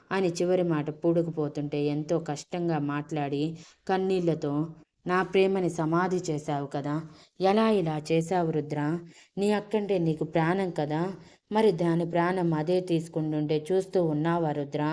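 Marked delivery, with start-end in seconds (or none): none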